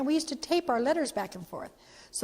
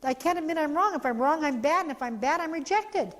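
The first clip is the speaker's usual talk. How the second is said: fearful inner voice; 5 semitones higher than usual. Retold or imitated. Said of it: "they're afraid to apologize".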